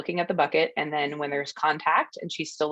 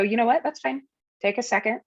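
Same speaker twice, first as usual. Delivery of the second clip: voicing the trainer; 6 semitones higher than usual. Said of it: "for her to go".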